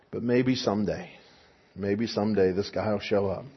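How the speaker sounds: soft, dreamy and longing; wistful hush. Retold or imitated. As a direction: murmur it like a tired hope. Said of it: "sounds like she's been waiting her whole life".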